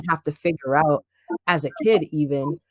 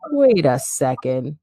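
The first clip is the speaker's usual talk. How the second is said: taken aback; 6 semitones higher, 4 dB louder than usual. Retold or imitated. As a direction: stretch the words out, incredulous. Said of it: "being like".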